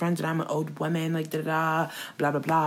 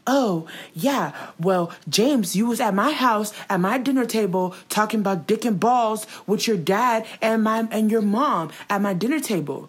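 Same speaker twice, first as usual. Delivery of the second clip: mock accusing Tati; 5 semitones higher than usual. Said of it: "she's like".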